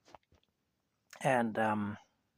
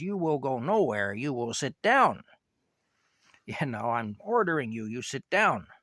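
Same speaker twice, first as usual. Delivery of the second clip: louder, stern mock order from an angry teacher; angry teacher yelling; 2 semitones higher, 6 dB louder than usual. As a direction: bark the order like a furious schoolteacher. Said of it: "she yells at me".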